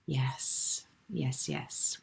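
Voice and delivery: soft whispered yes. Real, not acted. Soft agreement to viewer's comment.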